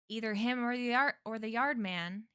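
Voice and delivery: lightly put-on Florida drawl; a touch of Florida yard man. Stranger changing accents to a yard man, light Florida drawl. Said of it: "he said in a deep Florida drawl".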